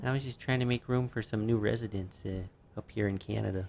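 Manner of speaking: hint of a Canadian accent. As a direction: lightly mimic a Canadian speaker. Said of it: "I do a pretty good accent".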